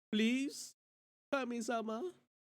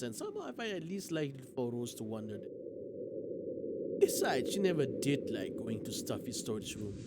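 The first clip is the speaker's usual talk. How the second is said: subdued storytelling voice; measured narration with falling phrase ends; story narration; 4 semitones lower, 4 dB quieter than usual. A narrator's reading. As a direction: read the story aloud, letting phrases sink. Reads story aloud.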